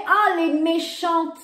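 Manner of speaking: slow, mocking take on the critics' words; a hint of sarcastic quoting voice; mock quote of critics. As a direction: drawl it out as if quoting a silly accusation. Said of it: "on m'a mis entre guillemets".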